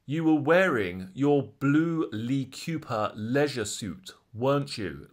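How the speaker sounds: a hint of the assertive barrister, slowed and deliberate; lightly voiced prosecutor, assertive but subtle; pointed barrister question. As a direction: lean on each word like a cross-examiner closing a trap. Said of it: "that's literally how he said it".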